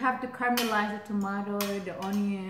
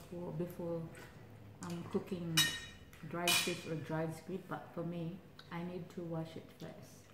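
talking with food in mouth; eating and speaking at once; chewing while talking; 3 semitones lower, 9 dB quieter than usual. Real, not acted. Seen 1: Woman talks with bulging cheeks, pursed lips between words, eating meal.

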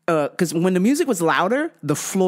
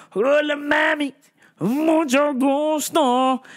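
higher, slow flirty "Mucho gusto"; smooth pickup line; 9 semitones higher, slower than usual. Retold or imitated. Greeting women in Spanish.

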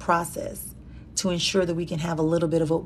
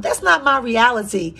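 higher and louder, a defiant cry; loud declaration; 5 semitones higher, 4 dB louder than usual. Shown as a demonstration. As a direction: shout it out as a rallying call. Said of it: "Scream out nice and loud".

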